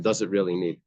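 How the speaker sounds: doubtful, leaning on "really"; skeptical rhetorical question. Shown as a demonstration. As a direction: ask it as if the answer is obviously no. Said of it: "the tone that they said it was".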